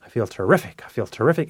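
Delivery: repeated affirmation, lifting on "terrific"; enthusiastic affirmation. Shown as a demonstration. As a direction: say it with feeling, building in pitch. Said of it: "say it with feeling".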